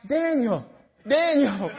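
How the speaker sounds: high, falling call of a name; mysterious calling voice. Acted. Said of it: "And it was like".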